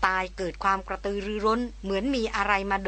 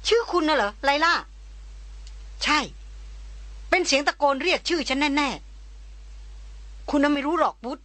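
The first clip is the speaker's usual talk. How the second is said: higher, urgent woman's voice; excited young woman; 4 semitones higher than usual. Acted. Christina telling Wut of the distant shout, higher and eager. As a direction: tell him of the strange shout, keyed up.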